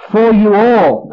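"all" drawn out slowly; stress on ALL. Shown as a demonstration. Preacher stressing Paul prays for every believer, emphatic and slow on "all". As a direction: lean slowly on "for you all". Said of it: "I like to stress that".

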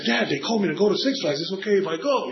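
put-on eager kid asking his dad; excited son. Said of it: "and he said".

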